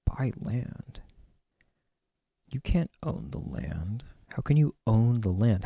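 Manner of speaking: hushed, disbelieving whisper; a whispered echo of the people's bafflement; incredulous whisper. Retold or imitated. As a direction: breathe it out as if buying land were absurd. Indigenous view, voiced incredulously.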